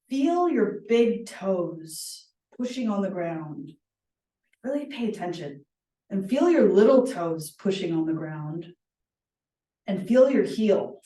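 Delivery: slow, calm meditation guidance; walk them slowly through their feet; guided grounding. Acted. Leads a grounding exercise.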